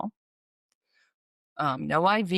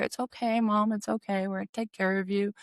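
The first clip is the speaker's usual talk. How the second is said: gently higher, reassuring tone; soothing; 3 semitones higher than usual. Retold or imitated. Daughter stroking her mother's hair, soothing her.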